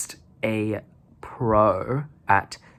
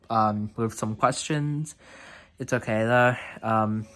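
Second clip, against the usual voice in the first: talking with a retainer in; wearing a retainer. Real, not acted. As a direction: speak around a retainer in your mouth. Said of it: "I'm in my retainers now".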